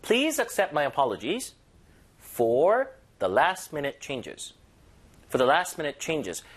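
slow, deliberate polite apology; slow formal model. Shown as a demonstration. Teacher demonstrates the formal apology, slow and deliberate. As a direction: lay each word down slowly. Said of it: "이걸 약간 포멀하게 간다면".

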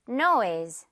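Noise ending on a lightly voiced z; light final z. Shown as a demonstration. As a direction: finish Noise with a slight buzz. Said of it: "마지막에 살짝 이 Z 발음으로".

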